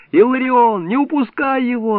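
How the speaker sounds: high urgent shout; yelling. A narrator's reading. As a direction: yell to him not to miss. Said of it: "орал я".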